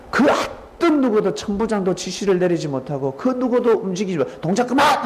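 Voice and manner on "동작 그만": high, loud order to freeze; commanding shout. A narrator's reading. Jesus halting the soldiers and Peter, loud command. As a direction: bark the command to stop everyone. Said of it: "할 정도로 예수님이 베드로를 질타합니다".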